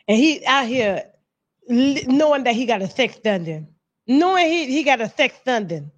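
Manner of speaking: exaggerated lisp on every s; mocking him with a heavy lisp; lisp impression. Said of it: "he wasn't talking like this".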